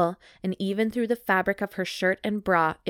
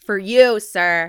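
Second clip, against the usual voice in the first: mock servile shout; 10 dB louder, slower than usual.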